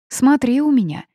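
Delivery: a loud, high warning; threatening. A narrator's reading. Heroine warns the wolf leader, threatening and loud. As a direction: shake a fist with the words. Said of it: "грозно сощурилась".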